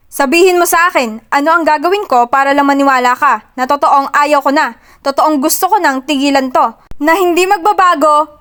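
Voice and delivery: rising voice. Acted. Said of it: "Unti-unting lumalakas ang boses niya".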